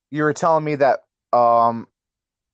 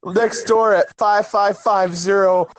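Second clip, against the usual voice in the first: mock lament; 6 semitones higher, slower than usual.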